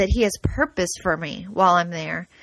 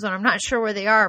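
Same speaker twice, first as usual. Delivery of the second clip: ordinary talk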